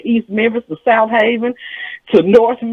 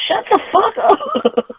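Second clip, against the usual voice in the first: high, slow, drawn-out scold; high mock scold; 12 semitones higher, much slower than usual. Mother shushes her daughter, high and slow. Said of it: "mom scolds again".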